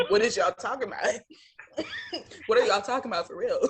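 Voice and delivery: imitated bewildered question through laughter; laughing imitation. Quoting the man left at the table, laughing through the imitation. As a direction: quote him while cracking up.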